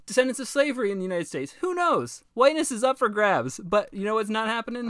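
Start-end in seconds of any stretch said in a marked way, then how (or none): 1.6-3.6 sarcastic. Real, not acted. Sarcastic quip.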